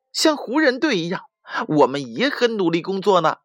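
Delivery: excited proud. Acted.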